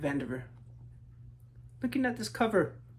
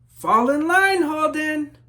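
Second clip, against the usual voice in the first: higher, louder sharp order; stern teacher call; 9 semitones higher, 12 dB louder, slower than usual. Acted. Teacher scolding the daydreaming Holden, loud stern call. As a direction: snap the boy back into line.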